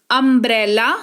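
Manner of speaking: अम्ब्रेला opening on a short अ. Shown as a demonstration. Teacher showing U's first sound, अम्ब्रेला starting on short अ. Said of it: "यू का उच्चारण अ के तौर पर".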